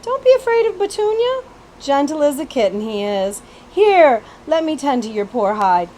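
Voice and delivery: high, bright coaxing country voice; Betsy character voice. Acted. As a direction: coax him gently, high. Betsy soothing prince.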